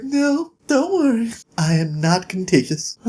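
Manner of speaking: high, prim ladylike voice; a lightly voiced fragile lady; genteel dying lady. Dying woman on her deathbed speaks primly to Jack.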